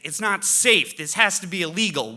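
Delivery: high, loud, outraged imitation of the ex; mock freak-out. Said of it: "She loses it".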